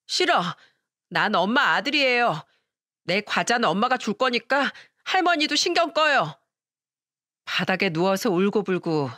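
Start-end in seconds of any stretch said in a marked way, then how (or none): 0.1-6.4 put-on defiant child. Grandson defiantly refusing grandma.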